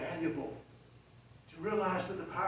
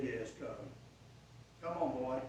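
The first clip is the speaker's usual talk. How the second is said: gentle invitation; 6 semitones lower, 8 dB quieter than usual. Acted. Jesus voiced inviting Peter.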